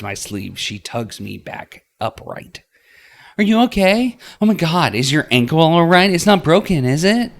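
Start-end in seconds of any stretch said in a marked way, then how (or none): 3.4-7.3 high, loud, panicked questions. A narrator's reading. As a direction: rush out worried questions in a panic. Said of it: "Panic is clearly painted across her face".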